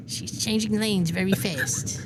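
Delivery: drawn-out, slowed quote delivery with a laugh under it; mock slow South Park voice. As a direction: lightly imitate a South Park character, slow. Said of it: "From South Park".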